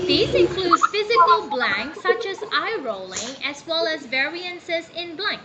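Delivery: animated teacher's demonstration reading; lively, enthusiastic. Shown as a demonstration. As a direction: model reading with feeling for a student. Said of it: "show your energy here".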